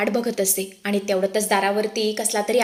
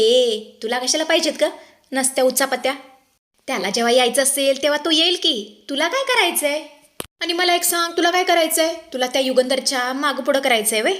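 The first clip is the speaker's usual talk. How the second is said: scolding; 4 semitones higher than usual. Acted. Shilpa scolding Anandi.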